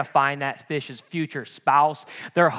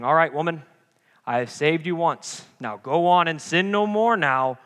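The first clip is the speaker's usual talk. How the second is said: mock stern; 3 dB louder than usual. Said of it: "Jesus isn't saying it like that".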